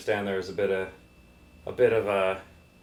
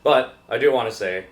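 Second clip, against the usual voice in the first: louder, building up to a reveal; announcing loudly; 4 dB louder than usual. Real, not acted. Co-host announcing the logo joke, louder. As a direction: raise the voice for the big reveal.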